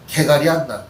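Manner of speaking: easygoing Chungcheong dialect phrase, lightly voiced. Shown as a demonstration. Pastor telling the congregation in Chungcheong dialect. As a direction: drop into Chungcheong dialect, low-key. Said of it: "충청도 사투리로 해드리겠습니다".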